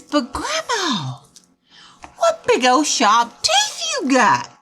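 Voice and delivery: sweet granddaughter checking in; lightly voiced little girl; Little Red Riding Hood. A narrator's reading. Little Red questions fake grandma.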